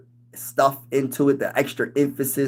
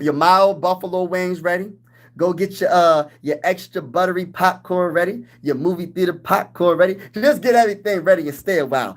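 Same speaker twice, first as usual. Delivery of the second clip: hype; 4 semitones higher than usual. Real, not acted. Hyping viewers to get snacks ready.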